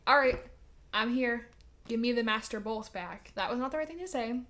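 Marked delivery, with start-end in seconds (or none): 0.1-3.3 Percy demanding. Retold or imitated. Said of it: "Percy's like".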